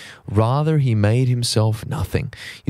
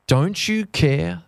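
doubting plea; 6 semitones higher, slower than usual. Retold or imitated. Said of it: "they say".

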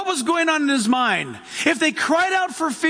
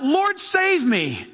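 desperate plea; 3 semitones higher, much slower than usual. Retold or imitated. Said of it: "Peter cries out".

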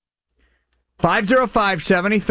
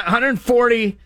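ordinary talk

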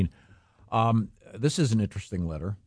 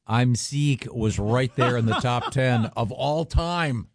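laughing; 3 semitones higher, much slower than usual. Real, not acted. Laughing while recalling the bit.

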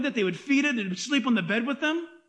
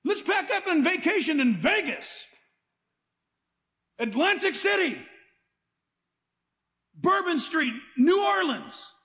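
higher-pitched, mock-eager holiday pitch; mock enthusiasm; 5 semitones higher than usual. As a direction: pitch an absurd holiday as a treat. Mock vacation suggestions continue.

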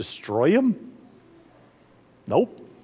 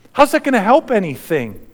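raised, pressing voice; disbelieving question; 4 semitones higher, 4 dB louder than usual. Acted. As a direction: challenge the crowd's logic. Preacher repeats question, then soft.

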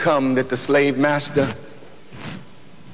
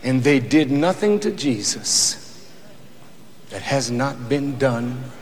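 much softer, intense hushed sermon; hushed preaching; 8 dB quieter than usual. Acted. Preacher to congregation about the pain of Jesus, hushed. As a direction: drop to a near hush to draw them in.

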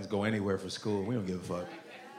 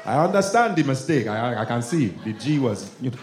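father correcting; 3 semitones higher, 7 dB louder than usual. Retold or imitated. Father lecturing the racist hillbilly.

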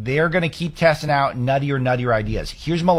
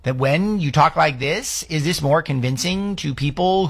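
up talk; 3 semitones higher, slower than usual. Retold or imitated. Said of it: "but also the up talk, just the tone".

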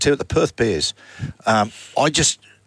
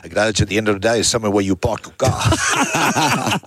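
mock lecturing voice. Lecturing Peter in put-on voice.

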